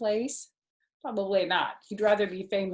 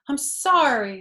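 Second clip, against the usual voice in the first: raisin's apology; 6 semitones higher, 7 dB louder than usual. Acted.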